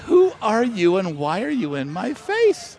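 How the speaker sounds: retold incredulous question, each word drawn out; bewildered challenge. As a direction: act out a bewildered demand. Acting out Raj's bewildered challenge.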